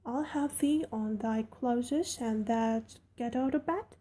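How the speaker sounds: put-on friendly servant girl rattling on; Yorkshire maid Martha. Martha speaks again.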